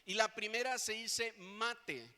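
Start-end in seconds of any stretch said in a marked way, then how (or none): 1.4-2.2 "mate" said slowly as a Hebrew word, with a double T; Hebrew pronunciation. Shown as a demonstration. Preacher teaching the congregation a Hebrew word for rod, "mate" slowly pronounced with double T. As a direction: carefully sound out "mate" with two Ts. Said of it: "con dos T, así como se escucha".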